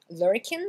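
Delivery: LURKING said as "lurkin"; dropped G. Shown as a demonstration. Teacher models for learners, final G dropped. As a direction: end lurking on a plain N. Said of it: "vous oubliez le G".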